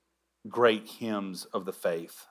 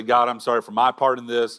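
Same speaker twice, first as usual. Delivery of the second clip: mock half apology; 2 semitones higher, 6 dB louder than usual. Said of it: "we don't come to God and say".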